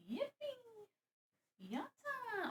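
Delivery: high, thin little victory squeal; a burst of triumph; 1 excited cheer. Real, not acted. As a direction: cheer like you just won. Cheering after blocking the sun.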